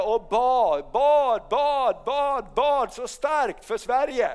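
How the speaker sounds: rising preacher's emphasis; building emphasis. Real, not acted. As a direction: hammer home each bad. Repeats bad with rising force.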